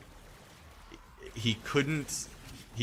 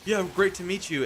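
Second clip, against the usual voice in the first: high, louder put-on woman's voice; fan's wife; 11 semitones higher, 5 dB louder than usual. Wife greeting the wrestler's son, imitated high voice. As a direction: imitate a gushing wife meeting someone. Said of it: "And the wife was like".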